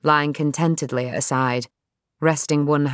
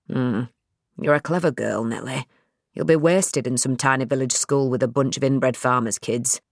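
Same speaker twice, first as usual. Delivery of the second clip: dad's voice; 3 semitones lower than usual. Acted.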